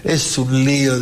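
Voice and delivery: friend's alarmed voice. Retold or imitated. Friend explains the cancelled tour.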